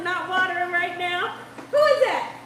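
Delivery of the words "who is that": real laughter breaking through, higher and louder; delighted laughing. Real, not acted. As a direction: laugh with joy at the kind message. Chat member blesses her eyes.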